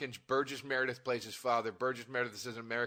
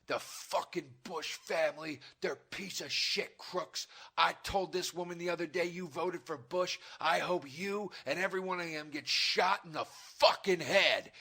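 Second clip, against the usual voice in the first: mock-furious political tirade, slightly raised; imitated furious rant; 5 semitones higher than usual. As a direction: go off like an irate ranter, building at the end. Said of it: "who was furious and going off about Bush".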